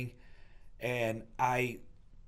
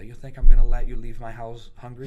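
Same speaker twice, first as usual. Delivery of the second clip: scolding grandmother; 14 dB louder than usual. Retold or imitated. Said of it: "She was like".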